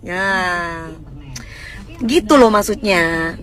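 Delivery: ordinary talk, nothing marked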